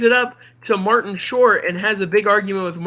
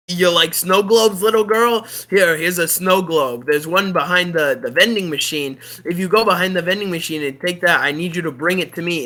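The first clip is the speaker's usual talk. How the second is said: Tim Allen voice. Retold or imitated. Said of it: "so Tim Allen is like".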